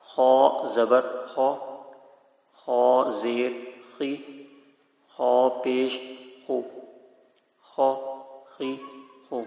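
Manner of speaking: "خا زبر خو" spelled out syllable by syllable, very slowly; slow, careful Qaida recitation; slow spelling drill. Shown as a demonstration. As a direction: drill each syllable of "خا زیر خی" clearly and slowly. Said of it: "واضح کر کے ٹھیک طرح سے پڑھنا ہے".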